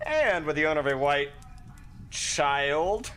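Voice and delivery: bubbly morning announcer, high and bright at the start; perky radio announcer. Acted. Mindy greets Miskatonic students as a cheery morning announcer. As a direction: chirp the announcements like a breakfast DJ.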